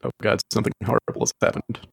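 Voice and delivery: choppy robotic glitching voice; bad connection robot voice. Real, not acted. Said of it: "You sound like a robot again".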